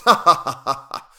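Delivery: loud, high, acted "ha, ha, ha"; king's laugh. A narrator's reading. King laughing at his own joke, loud hearty laugh. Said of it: "his laugh was chorused by the seven".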